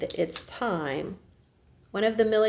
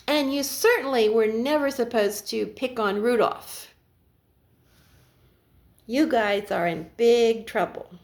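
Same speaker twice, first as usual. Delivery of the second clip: stern Santa scolding. Acted. Santa lecturing the naughty elves, mildly stern voice.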